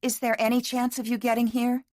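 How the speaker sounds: pleading. A narrator's reading. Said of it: "she asked".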